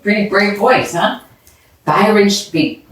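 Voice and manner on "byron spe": ordinary delivery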